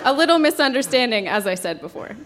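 giggling through the words; can barely hold back laughter; laughing. Real, not acted. Narrator giggling through story.

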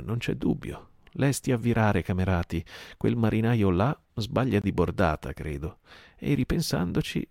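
a sailor suddenly cheered up; relieved pirate. Acted. Relieved pirate George agrees.

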